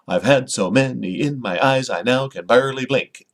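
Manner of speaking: "I've had so many in my eyes" with every second syllable punched; exaggerated sing-song beat on "barely blink"; in-your-face meter. Shown as a demonstration. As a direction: pound out the iambs: "i NOW can BAREly BLINK". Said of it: "that kind of in your face with, with that kind of, uh, meter".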